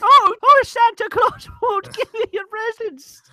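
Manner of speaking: put-on child teasing the others about presents; childish taunt. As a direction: squeal it like a bratty kid. Child voice, high scolding.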